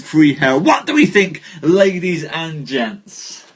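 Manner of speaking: measured storyteller reading a knightly tale; story narration. Acted. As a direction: tell the legend to the live audience. Live reading of Arthurian tale.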